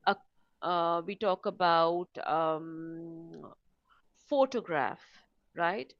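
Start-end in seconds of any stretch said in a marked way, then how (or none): 4.3-5.0 PHOTOGRAPH stressed on the first syllable, PHO-to-graph; word stress. Shown as a demonstration. Teacher gives learners a word-stress example, first syllable stressed. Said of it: "that is what we mean by word stress".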